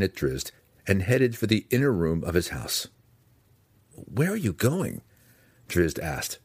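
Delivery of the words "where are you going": higher, puzzled question; lightly startled, pitched up; surprised question. A narrator's reading. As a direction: call after him, puzzled. Surprised question as Belwar leaves.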